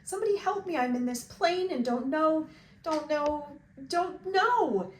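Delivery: high, loud, desperate cries for help; panicked screaming. A narrator's reading. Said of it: "he began to scream into the microphone".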